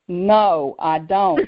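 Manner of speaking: retold blunt refusal; kind of rude. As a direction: turn them down rudely, as the friend did. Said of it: "that was kind of rude".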